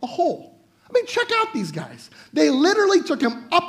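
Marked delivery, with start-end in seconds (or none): 0.0-0.6 breezy friends. Pretend. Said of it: "They're like".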